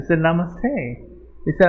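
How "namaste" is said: put-on namaste in a light American accent, rising at the end; mild mock American accent on namaste. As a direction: greet like an American tourist. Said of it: "With an American accent".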